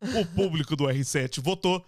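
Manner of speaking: formal announcer read, slow and deliberate; mock announcement. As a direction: read it like the show's official voice. Fake reality show announcement.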